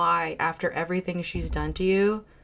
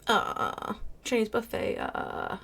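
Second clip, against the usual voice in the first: high-pitched mocking mimicry; mocking imitation; 6 semitones higher, slower than usual. Commentator mocks woman's Chinese buffet excuse, high mocking imitation. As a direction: mimic her whiny complaint in a raised pitch.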